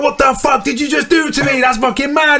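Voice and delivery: high-pitched mock disbelief; astonished. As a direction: imitate a friend totally freaked out. Voices friend's shock at the trick.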